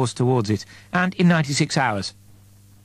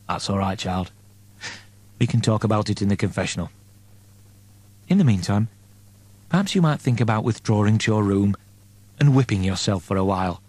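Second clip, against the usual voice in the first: gentle priest; 2 semitones lower than usual. Acted. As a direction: soothe her like a kindly confessor. Priest soothing penitent Peck.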